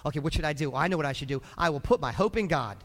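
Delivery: low, understated inner monologue; thinking to himself. Acted. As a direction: talk yourself round under your breath. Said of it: "hear the guy in his brain thinking".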